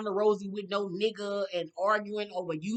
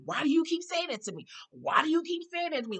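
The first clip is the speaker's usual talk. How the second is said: put-on whiny little girl; 7 semitones higher than usual. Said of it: "Like a little girl".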